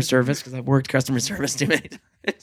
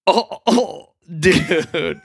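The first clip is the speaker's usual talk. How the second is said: laughing sympathy; much slower than usual. Retold or imitated. Friend's reaction, retold.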